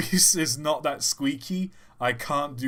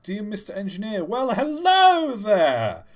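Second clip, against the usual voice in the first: shopkeeper voice; 4 semitones higher, 5 dB louder than usual. Acted. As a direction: read the letter as a chirpy shopkeeper. Reading shopkeeper letter in voice.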